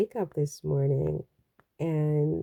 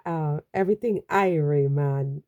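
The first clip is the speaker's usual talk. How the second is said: attempted Jamaican accent. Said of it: "I've lost my accent".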